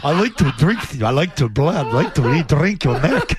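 vampire voice. Pretend. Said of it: "Count Chocula".

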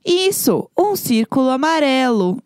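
voz de professora, aguda e lenta; instructing voice. Retold or imitated. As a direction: mimic a teacher calmly guiding the class. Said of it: "falando assim".

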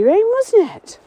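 sudden high startled question; real fright on a windy walk. Real, not acted. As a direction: jump at the noise, voice shooting up. Startled by a sudden noise outdoors.

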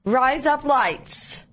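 slow phrase passing for Australian; accidental Australian accent. Shown as a demonstration. Testing the cohost's trick phrase, mock Australian accent. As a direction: say it slowly to sound like Australian "razor blades". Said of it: "razor blades with an Australian accent".

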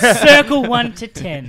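slow, high survey voice; hammy customer survey; mock polite villain.

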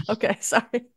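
laughing apology. Real, not acted. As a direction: still giggling through the apology. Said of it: "waiting for you to stop laughing".

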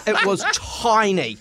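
slow, laughing through the words. Real, not acted. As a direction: chuckle it out slowly. Amused complaint about tiny room.

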